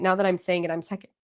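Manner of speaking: talking through hiccups; words broken by a hiccup. Real, not acted. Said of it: "and I'm hiccuping".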